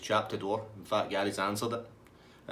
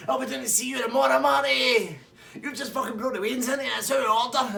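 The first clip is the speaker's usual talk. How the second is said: laughing taunt; 14 semitones higher, 7 dB louder than usual. Retold or imitated. Gary taunting while leaving.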